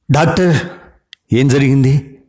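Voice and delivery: high, urgent begging question; pleading. Acted. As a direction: plead with the doctor for an answer. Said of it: "బతిమలాడాను". (బతిమలాడుతూ, ఎత్తైన స్వరంతో)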